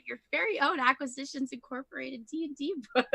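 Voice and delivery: playful mid-game advert; sponsor plug. Pretend. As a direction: plug it like an announcer, spelling out the address. Mock plug for the book.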